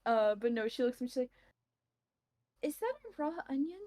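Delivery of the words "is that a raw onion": incredulous. Acted. Character cautiously asks about onion.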